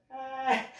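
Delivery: high, loud mock "ah"; imitated cry. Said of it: "I'm just like".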